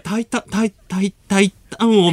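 trying out a heavy Kyoto lilt; playful Kyoto accent imitation; Kyoto dialect teacher. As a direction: mimic the teacher's Kyoto intonation, groping for it. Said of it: "すっごい京都弁の先生".

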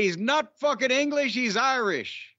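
put-on a shaky, half-hearted stab at an Irish accent; rough imitation of an Irish reader's complaint. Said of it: "I'm not sure I'm doing the accent right".

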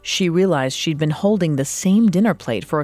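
true crime narrator. A narrator's reading. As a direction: narrate it like a dark documentary. Dramatic true crime cold open.

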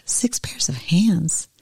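"Six pairs of hands?" slow and breathy in disbelief; the angel can't believe "hands", drawn-out and hushed; incredulous question. Acted. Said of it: "The angel shook her head slowly and said".

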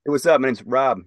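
a hint of a bright, loud casual bro; generic white guy. Mocking a bland white-boy name, lightly voiced casual bro. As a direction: toss it off like an ordinary guy named Rob. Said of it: "could you imagine".

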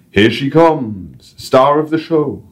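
high, slow, broad North English showman voice; North English guide. Acted. Guide on his radio mic, North English accent. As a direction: announce the bird in a chirpy North English accent. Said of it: "random North English accent".

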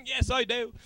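badly faked accent as Simon Pegg; awful accent. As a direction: answer in a deliberately poor Simon Pegg accent. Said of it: "that was my awful accent".

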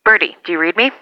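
calling out over a two-way radio; over walkie talkie. Acted.

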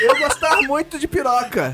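mock a learner proudly trying out a new word; fake foreign learner.

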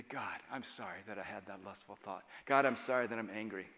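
soft, low confession to God; hushed repentant prayer; quiet prayer. Shown as a demonstration. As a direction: pray it softly and humbly.

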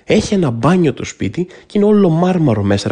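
ordinary delivery

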